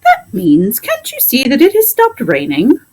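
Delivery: high, chirpy parrot explaining; a clever parrot setting the doctor straight. Acted. Parrot Polynesia explains to the doctor, high parrot voice.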